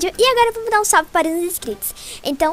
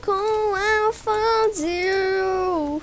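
drawn-out whine; 5 semitones higher, much slower than usual. Real, not acted. Drawn-out mock complaint.

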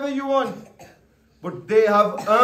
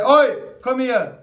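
rude call; 3 dB louder than usual. Shown as a demonstration. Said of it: "That is rude".

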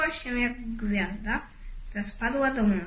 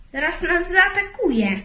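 higher, louder frightened whimper; fearful moan; 6 semitones higher, 5 dB louder than usual. A narrator's reading. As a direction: moan in dread of the bear. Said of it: "jęknął Blubek". (wyższy, lękliwy jęk)

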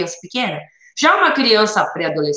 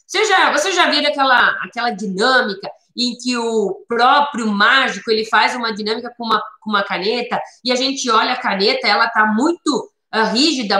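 more grown-up, lightly voiced challenge; teacher catching the interest of ten-to-twelve-year-olds, only mildly raised; teacher talking to preteens. Shown as a demonstration. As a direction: pitch it as a cool magician's trick. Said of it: "essa linguagem pra criança mais próximo de dez, doze anos".

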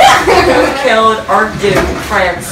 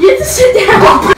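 high shout; 11 semitones higher than usual. Real, not acted. Ordering friend into water.

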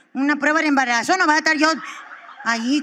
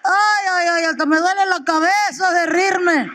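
wheezing, higher, breaking into howls; can't stop laughing at the dance; helpless laughter; 4 semitones higher, slower than usual. Retold or imitated. Husband laughing hard at his wife's dance.

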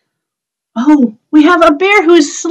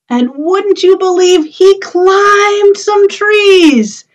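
sing-song rhyme for little ones; rhyme recital; slower than usual. Acted. Teacher reciting a bear rhyme to the children, sing-song.

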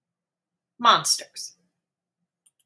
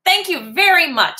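polite kitten voice; 8 semitones higher than usual. Acted. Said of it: "says Max".

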